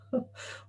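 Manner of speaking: short, quiet amused laugh; quiet chuckle. Real, not acted. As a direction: chuckle briefly at your own joke. Amused by his own provocation.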